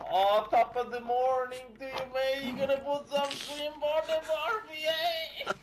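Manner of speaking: high, loud, hammed-up Aussie accent; Australian accent cranked up for a joke. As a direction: do a bad over-the-top Australian bloke.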